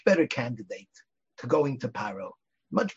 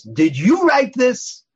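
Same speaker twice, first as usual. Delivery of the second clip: loud, high and very slow, menacing; stern accusing demand; 10 semitones higher, 8 dB louder, much slower than usual. Retold or imitated. Rabbi confronts his assistant over the article, loud stern accusation. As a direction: drop it like a verdict on a frightened assistant. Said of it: "the tone of voice scared the wits".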